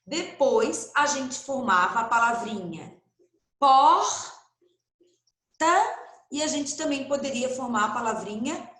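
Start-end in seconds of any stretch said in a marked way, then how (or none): 3.6-4.4 porta said high and loud, leaning on the R; emphasised word. Shown as a demonstration. Teacher presenting the formed word porta to young pupils, said high and loud.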